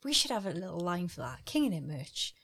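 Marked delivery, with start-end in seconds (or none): 1.4-2.3 soft low slogan take; quiet slogan try. Acted. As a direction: test the slogan softly. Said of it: "No, that was terrible".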